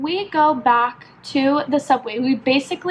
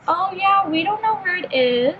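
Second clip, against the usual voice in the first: higher-pitched, airy customer-service voice; mock an unhelpful phone agent; lifted, singsong brush-off; postal agent imitation; 6 semitones higher than usual.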